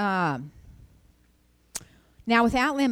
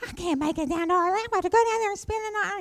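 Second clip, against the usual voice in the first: mock panic; 12 semitones higher than usual. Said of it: "my temptation was to panic".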